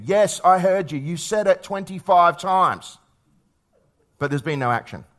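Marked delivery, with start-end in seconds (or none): 0.0-3.0 higher, drawn-out mock exasperation; exasperated kid. Kid answering a parent who asked "did you hear me", mock exasperated. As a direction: lightly act a fed-up child answering back.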